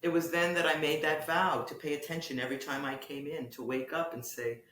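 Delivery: measured prose reading with lifted openings and falling phrase ends; literary reading. Acted. Poet reads hospital piece to the interviewer, literary reading. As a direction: read it as a poet, pausing between phrases.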